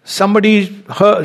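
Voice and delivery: normal talking voice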